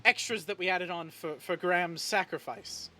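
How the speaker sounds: a hint of a nervous, starstruck young woman; flustered admirer. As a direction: stammer out an eager apology. NPC flustered apology to hero.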